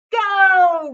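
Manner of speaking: huge loud roar. A narrator's reading. Coach sending the swimmers off with a roar. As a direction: roar the start with everything. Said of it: "roared the coach".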